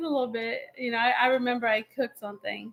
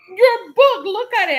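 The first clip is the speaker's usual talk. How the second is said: high, louder retold outburst; exploding; 6 semitones higher, 6 dB louder than usual. Wife shows husband his book, retold exploding. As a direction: re-enact shoving the proof at him. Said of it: "I kinda just exploded".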